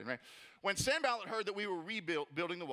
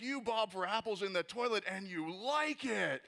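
put-on kid trash talk; 3 semitones higher than usual. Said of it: "the one dude's just like".

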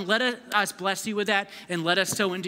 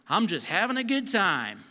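fun-seeker. Acted. Mimics someone living for fun.

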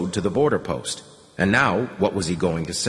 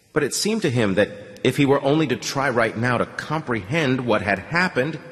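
plain reading voice

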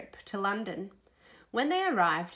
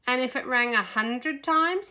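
higher, louder, climbing question; curious, building to a lifted end; wondering question; 4 semitones higher, 5 dB louder than usual. A narrator's reading. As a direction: wonder aloud with rising pitch. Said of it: "he wondered".

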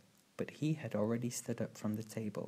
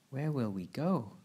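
a touch of worry, louder with a swinging pitch; mildly nervous; 3 semitones higher, 5 dB louder than usual. A narrator's reading. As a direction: ask with understated nervousness. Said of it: "Violet asked nervously".

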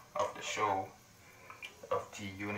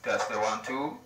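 loud mic check through radio; walkie-talkie voice; 9 dB louder than usual. Shown as a demonstration. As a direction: test the radio loudly.

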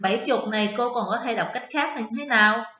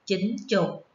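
slow confirmation; slower than usual. Shown as a demonstration. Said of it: "đúng rồi".

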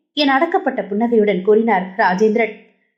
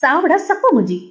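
mock threat; 6 semitones higher than usual. A narrator's reading. Girl playfully choking friend.

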